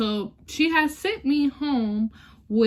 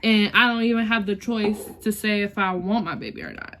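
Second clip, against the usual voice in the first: tearful. Real, not acted. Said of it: "oh, I'm about to cry".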